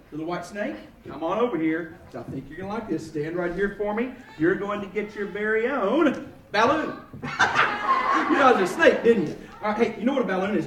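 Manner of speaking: low, mumbly goofy voice; silly speech problem voice. Pretend. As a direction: play a clown with a speech problem. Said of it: "it's a speech problem I've got".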